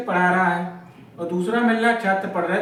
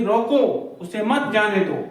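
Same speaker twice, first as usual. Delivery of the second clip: रोको as its own command, short break, then उसे मत जाने दो; pause after रोको. Shown as a demonstration. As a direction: stop briefly after रोको. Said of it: "रोको के बाद हमने अल्प विराम लगा दिया".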